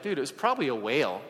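lightly voiced little kid, offhand. To the congregation, a hint of a kid saying dude. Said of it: "I still think like a little kid".

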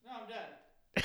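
ordinary delivery

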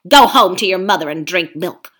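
loud, pushy ape lecturing the beasts; a sly ape bullying the crowd; scheming ape. Acted. Ape haranguing the gathered beasts, loud and pushy. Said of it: "he hissed".

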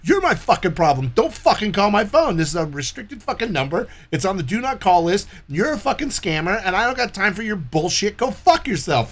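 cursing out a phone scammer; retold rant. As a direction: lay into the scammer. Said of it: "I'm like".

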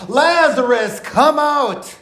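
high, commanding call; loud cry. Acted. Preacher voicing Jesus summoning Lazarus from the tomb, loud cry. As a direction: call out slowly and forcefully, pitched well up. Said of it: "he cried out in a loud voice".

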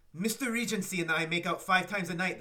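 hammed-up French accent; a deliberately bad French accent. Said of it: "me trying to do a really bad French accent".

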